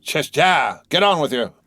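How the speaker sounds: high, exasperated urging; vexed coachman. A narrator's reading. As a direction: chivvy the horses crossly. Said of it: "the vexed coachman".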